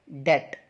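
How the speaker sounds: डेट as "det", with silent b; one short syllable डेट, like "det"; correct pronunciation. Shown as a demonstration. Teacher models the word for debt, correct pronunciation. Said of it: "इस word की सही pronunciation है".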